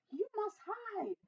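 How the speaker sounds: high, hushed slow warning; urgent hiss. A narrator's reading. Giant's wife secretly telling Jack to hide, hissing. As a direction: warn him softly, drawing it out. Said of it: "hissed Missus Giant".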